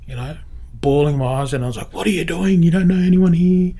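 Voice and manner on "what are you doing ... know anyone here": raised, incredulous voice breaking into laughter; high, louder, laughing at her own tears; mock self-scolding. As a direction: scold yourself half-laughing. Retelling crying at church, self-scolding.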